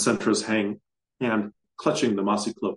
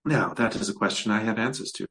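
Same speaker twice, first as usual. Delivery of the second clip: cooing. Acted. Hag coos to Kazlant, pleased with his question. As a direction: coo it like a satisfied hag. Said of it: "she cooed".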